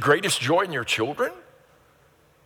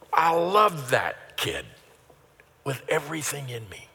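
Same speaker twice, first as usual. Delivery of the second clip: fond parent. Acted. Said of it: "you're just".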